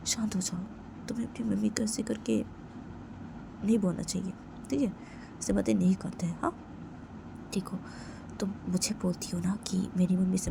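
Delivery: put-on patient friend calming a crying girl; soothing friend. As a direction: gently settle her down.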